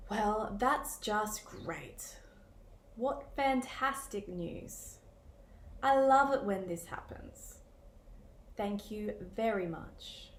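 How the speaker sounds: slow, drawn-out dry sarcasm; sarcastic. Shown as a demonstration. Teacher showing students how sarcasm sounds, slow and dry. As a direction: drag it out, pretending to be pleased. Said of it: "how your voice can communicate sarcasm".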